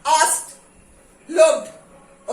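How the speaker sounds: आस्क्ड and लुक्ड stretched slowly, syllable by syllable; slow and drawn out. Shown as a demonstration. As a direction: spell them out slowly for the class. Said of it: "okay, वैसा नहीं". (धीरे-धीरे खींचकर बोलना)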